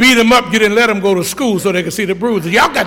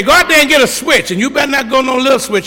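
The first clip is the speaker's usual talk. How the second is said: bossy grandma; 5 semitones higher than usual. Retold or imitated. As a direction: order the kid out for a switch. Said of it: "She'd tell you".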